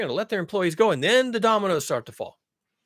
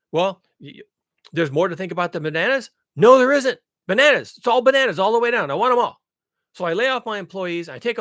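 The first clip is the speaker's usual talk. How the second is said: mock greedy CEO; 4 dB louder than usual. Acting greedy CEO arguing.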